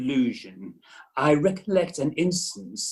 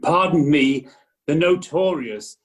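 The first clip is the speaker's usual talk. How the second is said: notorious said firmly as a correction; correcting the word; 2 semitones higher, 6 dB louder than usual. Acted. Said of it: "We don't use the term famous".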